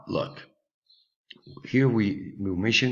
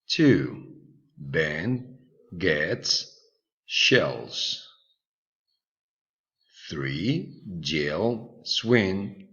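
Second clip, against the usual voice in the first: slow dictation read; much slower than usual. Shown as a demonstration. Repeats listening exercise.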